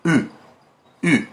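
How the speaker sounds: "U" as "oo" with rounded lips; U vowel. Shown as a demonstration. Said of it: "faço uma boca de U".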